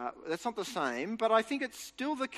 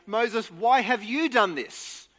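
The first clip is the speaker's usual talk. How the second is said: grumbling Israelites confronting Moses, mildly accusing; mock complaint; 2 semitones higher, 6 dB louder than usual. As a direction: voice the grumbling crowd with a mild edge. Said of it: "they grumble against Moses and they say".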